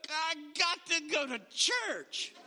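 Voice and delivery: dragging, grudging "I got to go to church" with a laugh; reluctant churchgoer. Acted. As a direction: sound like it's a chore. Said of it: "woke up and go".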